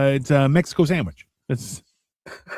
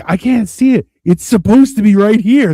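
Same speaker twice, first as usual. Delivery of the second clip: confused alien voice; 6 semitones higher, 7 dB louder than usual. Retold or imitated. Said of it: "And they're all like".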